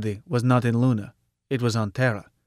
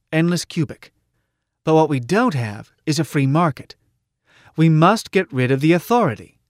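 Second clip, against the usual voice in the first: slightly raised, emphatic speech to a crowd; persuasive rally orator; 4 semitones higher than usual. Acted. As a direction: win the crowd over, point by point. Orator answering a heckler.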